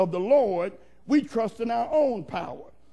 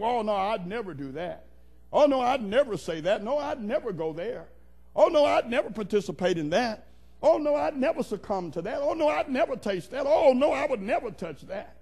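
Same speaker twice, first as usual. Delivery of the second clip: overconfident protest. Acted. Acts out self-confident people's repeated denials.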